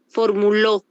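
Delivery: "Formuló" with the stress on its final "ló"; stress on last syllable. Shown as a demonstration. Teacher shows class why "Formuló" is aguda, stressing final "ló". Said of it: "Ese lo sería aguda".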